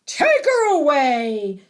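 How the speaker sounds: put-on loud, mean old man's shout; angry shout. A narrator's reading. Mean old Benya rejects the bride, shouting. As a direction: shout the order out. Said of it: "shouted old Benya".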